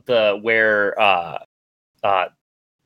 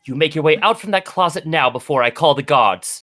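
higher, imperious noblewoman's order; indignant demand; 5 semitones higher than usual. Acted. Noblewoman confronts intruder in closet.

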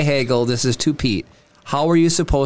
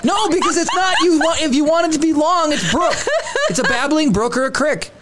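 higher, laughing protest; laughing insistence; 10 semitones higher than usual. Real, not acted. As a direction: laugh while insisting on crick. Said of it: "You heard that from your grandparents".

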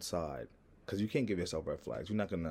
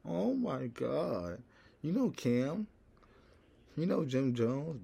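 high-pitched, star-struck gushing; mock a thrilled fan, pitched way up, stretching the words; excited fan imitation; 8 semitones higher, 3 dB louder, much slower than usual. Acted fan reacting to Harlem.

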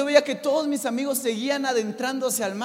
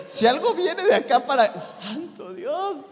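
mock panic; 5 semitones higher than usual. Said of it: "Y yo dije".

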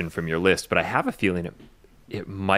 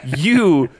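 laughing; 6 semitones higher, 5 dB louder, much slower than usual. Real, not acted. Laughs mid-sentence.

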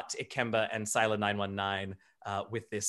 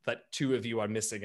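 ordinary delivery

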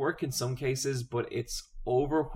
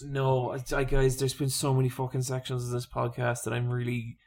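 irritated snapping. Real, not acted. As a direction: snap at the guys, fed up. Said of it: "I'm irritated right now".

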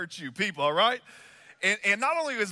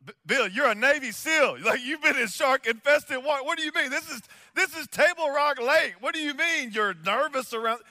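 higher and louder, disbelieving questions; mock outrage at a seal afraid of water; hammed-up shocked pastor; incredulous; 7 semitones higher, 5 dB louder than usual. Incredulous at Navy seal's fear.

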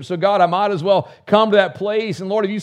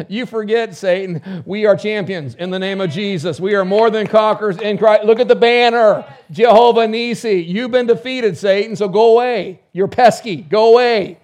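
louder, triumphant scolding of Satan; mock rebuke of Satan; 4 semitones higher, 6 dB louder than usual. Believer defying Satan under a banner, triumphant loud rebuke. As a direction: tell the devil off like you've already won. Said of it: "you're like".

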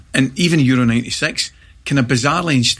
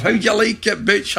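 mock taunt; 9 semitones higher than usual. Taunting a teammate in training.

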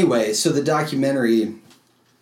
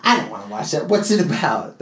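lightly voiced bored wife; a hint of a reluctant wife; imitating his wife; 4 semitones higher than usual. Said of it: "That's my impression of my wife".

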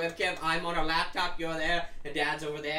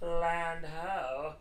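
shouting from crow's nest; 3 semitones higher than usual. Acted. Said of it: "He yells down".

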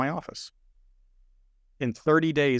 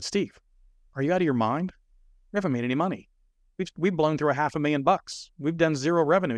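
higher, disbelieving outburst at a partner; exasperated pleading, pitched up; incredulous protest; 5 semitones higher than usual. Retold or imitated. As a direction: retell it like you can't believe what you're hearing. Retelling his panicked objection to partner.

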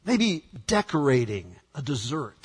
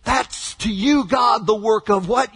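calling out to God; 4 semitones higher than usual. Acted. Preacher quoting psalm, shouting.

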